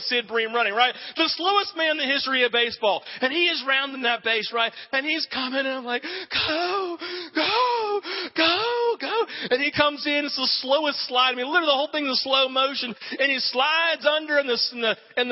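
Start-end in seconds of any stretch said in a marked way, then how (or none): 6.0-9.3 will the runner home from the couch; cheering on. Retold or imitated. College kid cheering the runner home, rising excited chant.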